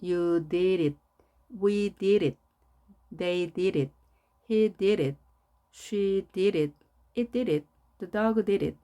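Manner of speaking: "did it" with the d tapped like a light r; linked, smooth "di-rit" each time; fluent American flap on "did it"; soft flapped d. Shown as a demonstration. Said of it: "이렇게 부드럽게 발음하면".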